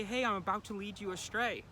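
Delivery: the unconscious mocking the neocortex, high sarcastic voice. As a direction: play your unconscious being sly and sarcastic. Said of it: "Your unconscious doesn't say".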